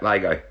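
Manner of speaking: "Lego" said as LAY-go; "Lego" as LAY-go, voice falling at the end; own Australian pronunciation. Shown as a demonstration. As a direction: say "Lego" with a long AY in the first syllable. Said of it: "That's how I say it".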